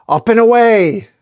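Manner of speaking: big heroic yell; high, loud battle cry; Superman. Acted. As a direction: launch it like a superhero taking off. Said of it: "Superman just yells".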